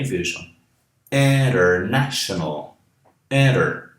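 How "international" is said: International with IN and NA both stressed; two stresses. Shown as a demonstration. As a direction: lean on IN and NA in International. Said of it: "Palavras de cinco sílabas também".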